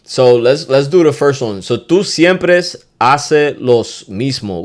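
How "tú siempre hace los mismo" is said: slow, clear teaching delivery of siempre; slow demo phrase. Shown as a demonstration. Teacher slowly models a Spanish argument phrase. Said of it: "Ooh, that's a good one".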